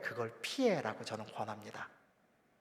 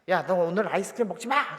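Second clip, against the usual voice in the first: mock angry mom; 3 semitones higher, 5 dB louder than usual. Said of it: "집사람이 화가 났습니다".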